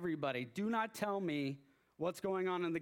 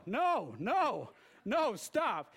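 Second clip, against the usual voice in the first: higher, louder pleading no; loud protest; 4 semitones higher, 5 dB louder, much slower than usual. Retold or imitated. Fan to spoiling coworker, a loud retold protest. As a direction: cut him off, begging him to stop. Refusing to hear the score.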